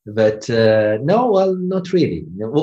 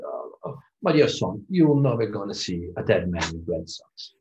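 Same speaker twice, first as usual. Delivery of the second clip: imitating a posh old British surgeon, softly; mock upper-class British accent, hushed; 2 semitones lower, 6 dB quieter than usual. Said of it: "he replied with a very posh British accent".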